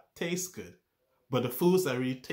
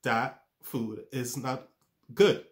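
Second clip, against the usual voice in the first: startled warning; slower than usual. Retold or imitated. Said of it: "taste warns us".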